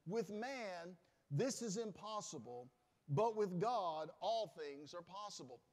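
slow and loud, hitting each phrase; emphatic quote. Acted. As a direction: lay each phrase down slowly for weight. Preacher quoting Jesus with emphasis.

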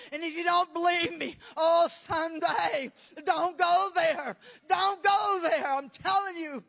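cried-out warning to the congregation; urgent preaching. Real, not acted. Preacher warning listeners away from hell, urgent preaching.

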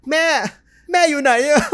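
put-on high, loud childlike call breaking into laughter; mock scared child call. A kid calling for his mother, laughing at himself. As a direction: cry out for mom then crack up.

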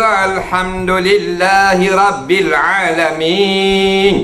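slow recitation in a Malay style. Shown as a demonstration. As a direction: draw it out slowly, Malay style. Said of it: "Kalau Melayu ke".

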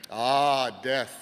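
knowing sage murmur; lightly voiced old sage; wise old sage. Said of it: "said the wise man".

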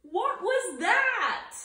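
high, loud, slow startled question. A narrator's reading. Kitten startled by something he saw, a high loud question. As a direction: ask it wide-eyed and alarmed.

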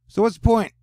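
high, loud whiny complaint. Real, not acted. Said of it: "I sounded like a whiny bitch there".

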